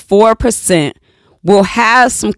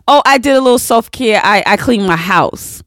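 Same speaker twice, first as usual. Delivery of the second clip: fast, higher, offhand; breezy casual person; 3 semitones higher, faster than usual. Retold or imitated. Mocking people who call chores self-care, breezy fast. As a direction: toss it off like it's nothing. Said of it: "I have heard people say".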